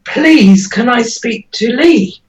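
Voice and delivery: retold plea, stress on "Please"; mild pleading. Relative ringing the hospital again for Lee, mildly pleading. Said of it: "So you ring the hospital again".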